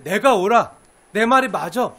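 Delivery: loud, sure-of-himself insistence; self-righteous inner voice. Retold or imitated. A person convinced they are right, loud and insistent. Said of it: "하고 생각하는 순간".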